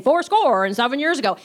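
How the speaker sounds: hammed-up repeated catchphrase; imitating novice Lincoln. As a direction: proclaim it like a clueless amateur playing Lincoln. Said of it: "he kept saying".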